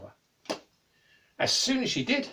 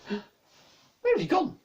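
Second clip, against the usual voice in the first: put-on girl calling out; 13 semitones higher, 4 dB louder, much slower than usual. Girl calling for missing man.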